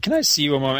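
sheepish plea. Retold or imitated. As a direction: ask like a guy caught by his wife. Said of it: "the look on Flash's face when he's calling".

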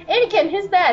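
Rex. Acted. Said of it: "Rex is just sitting there going".

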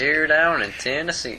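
lightly put-on Southern US accent. Co-host answers friend's fondness for the accent, mock Southern accent. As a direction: try a Tennessee twang. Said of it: "I do like the Southern accent".

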